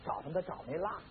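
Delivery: ordinary delivery, nothing marked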